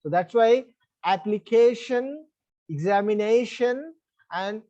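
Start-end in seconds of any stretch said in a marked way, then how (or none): 1.1-2.2 application, slow, with a long stressed CA. Shown as a demonstration. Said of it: "penultimate syllable should be stressed". 2.7-3.9 examination stressed on the second-last syllable; examination with weight on "na". Shown as a demonstration. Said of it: "penultimate syllable should be stressed".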